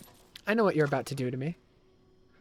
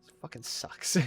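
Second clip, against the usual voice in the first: whispered; 7 dB quieter than usual. Real, not acted. Muttered frustration.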